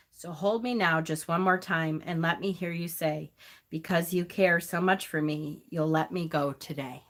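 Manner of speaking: reading a farewell poem, fighting back tears; choked-up memorial poem read aloud; tearful poem reading. Real, not acted. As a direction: read it gently, holding back real tears. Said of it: "I'm just crying 'cause the poem itself".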